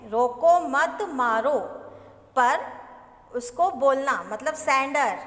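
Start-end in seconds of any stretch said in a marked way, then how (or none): 0.1-1.6 loud रोको मत मारो with hardly a pause; the bare words रोको मत मारो, evenly joined; words run together. Shown as a demonstration. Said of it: "मतलब शब्द वही है".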